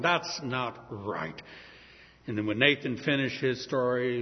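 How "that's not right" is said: "That's not right" low and very slow, held-in anger; rising anger. Acted. David reacting to the stolen lamb with low held anger. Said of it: "an anger arose within him".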